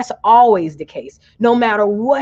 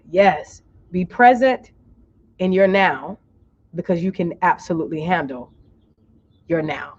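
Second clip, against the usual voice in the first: guided relaxation. Real, not acted. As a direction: lead them gently through each breath. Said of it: "relax your forehead".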